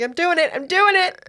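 high-pitched, urgent mock panic; frantic quote. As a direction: repeat it high, psyching yourself up. Quoting him bracing to grab pipe.

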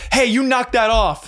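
high, whiny scolding voice; a timid kid telling off a bear; scaring off a bear. Pretend. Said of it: "yell at the bear in a loud, firm voice".

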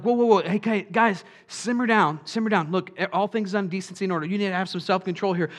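the apostles' moderator trying to restore order; mock church moderator. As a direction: play an officious chairman calming the room. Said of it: "were like".

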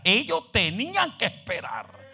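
building emphasis. Shown as a demonstration. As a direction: stretch and lean into "tenían que esperar". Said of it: "porque ellos tenían que esperar".

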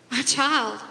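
gently calling his son; gentle. Acted. Father soothing angry older son, gentle. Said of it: "your father says gently".

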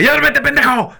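lightly voiced nagging mother; scolding mother. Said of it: "mi mamá me decía". (una madre regañando, apenas imitada)

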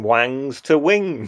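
Daphne's delivery. Retold or imitated. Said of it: "Daphne's delivery of even that".

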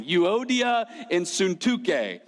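"Euodia" as you-OH-dia, "Suntuke" as soon-TOO-kay; playfully drawn-out "Euodia and Suntuke", ending in -kay; fun pronunciation. Shown as a demonstration. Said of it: "the most fun pronunciation".

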